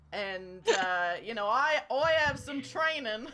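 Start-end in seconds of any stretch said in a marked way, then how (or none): 1.5-3.3 laughing. Real, not acted. GM laughing through James line.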